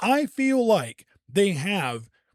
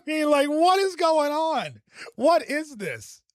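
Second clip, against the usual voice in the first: higher, baffled questions; bewildered; 8 semitones higher than usual. Real, not acted. Baffled by the clip, higher and bewildered. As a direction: sound genuinely thrown.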